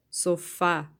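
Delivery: Sofá with the FÁ hit strongly; final-syllable stress. Shown as a demonstration. Teacher giving pupils an oxítona example, stressed on the end. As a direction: land firmly on the end of Sofá. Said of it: "a última sílaba é a forte".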